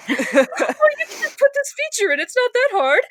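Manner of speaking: high, dismissive mock gamer voice; mocking naive gamer. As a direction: parody a know-it-all player. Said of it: "mocking naive gamer".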